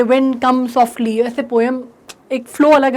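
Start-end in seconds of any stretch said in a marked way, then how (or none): 0.0-1.3 slow, drawn-out recital of a line; slow recited line; poem recitation. Shown as a demonstration. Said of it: "बोल बोल के ऐसे नहीं पढ़ेंगे".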